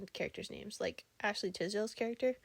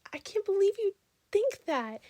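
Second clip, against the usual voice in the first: much higher, whispered imitation of a shocked woman; mock outraged woman; 11 semitones higher, 6 dB louder than usual. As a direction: gasp it out in disbelief. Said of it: "was just like".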